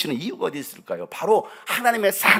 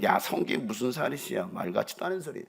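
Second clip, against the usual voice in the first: scoffing mutter; 4 semitones lower, 7 dB quieter than usual. Retold or imitated. Scoffers quoted.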